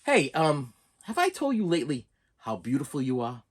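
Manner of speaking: soft, sincere compliment to mom; gentle loving question; tender compliment. Shown as a demonstration. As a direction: say it softly, looking her in the eyes. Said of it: "say it just like this".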